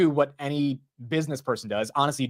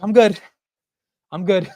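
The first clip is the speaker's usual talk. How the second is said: higher, louder fake I'm-fine answer; forced calm; 6 semitones higher, 8 dB louder than usual. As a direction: pretend everything's fine to dad. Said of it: "I was like".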